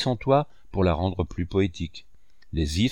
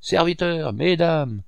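full-voice shout; 7 semitones higher, slower than usual. Acted. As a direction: bellow it across the garden. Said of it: "cria de toutes ses forces".

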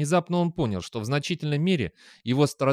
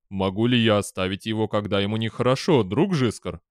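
confused robot; 3 semitones lower than usual. A narrator's reading. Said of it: "спросил Дэниел растерянно".

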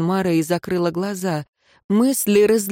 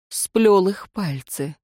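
ordinary delivery, nothing marked

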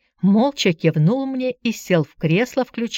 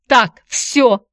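loud, higher, firm declaration; decisive; 5 semitones higher, 5 dB louder than usual. A narrator's reading. Aunt halts the visitor's questioning, decisive. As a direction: put a firm end to it. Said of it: "решительно заявила она".

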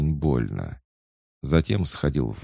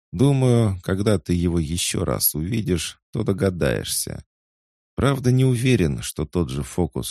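lightly voiced cat, advising; 4 semitones higher than usual. Talking cat advises the boy on his quest, lightly playful. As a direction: lively lilt with high phrase openings.

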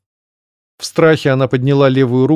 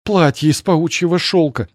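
moan; 5 semitones higher than usual. Acted. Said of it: "простонала".

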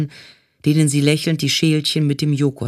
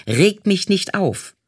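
mild mock yell; 4 semitones higher, slower than usual. A narrator's reading. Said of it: "schrie die Aufnahmeleiterin".

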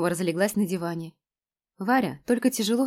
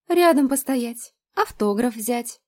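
dreamy; 5 semitones higher, 5 dB louder, slower than usual. A narrator's reading. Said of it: "продолжила мечтать Лена".

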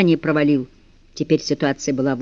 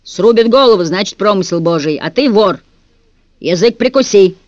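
angry threat; 3 semitones higher, 5 dB louder than usual. Acted. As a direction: threaten him like an angry guard. Bass guard angrily threatening prisoner.

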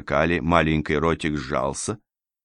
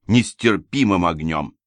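ordinary delivery, nothing marked

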